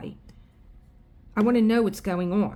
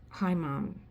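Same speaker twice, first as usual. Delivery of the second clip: softened, sugary greeting; quiet overly nice hello; sweetly nice doctor; 4 dB quieter than usual. Retold or imitated. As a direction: play the suddenly friendly doctor. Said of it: "he could not have been nicer".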